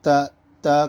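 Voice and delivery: تا with the tongue tip just past the teeth. Shown as a demonstration. Teacher showing the letter's place, تا with tongue tip forward. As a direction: say تا, tongue tip poking slightly between the teeth. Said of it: "جیب کی نوک دانتوں سے تھوڑا باہر".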